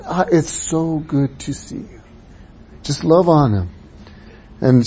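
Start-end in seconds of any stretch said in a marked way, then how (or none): 0.1-2.0 warm welcome. Retold or imitated. Just tell.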